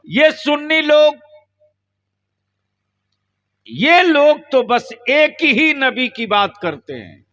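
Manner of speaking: taunting. Retold or imitated. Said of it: "ताना देकर कहता है".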